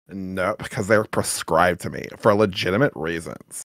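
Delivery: usual speaking voice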